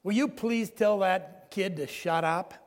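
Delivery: a slow, mildly irritated demand, retold; angry demand. Angry passenger to the father on the baby's crying, mild mock irritation. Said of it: "one angry man said".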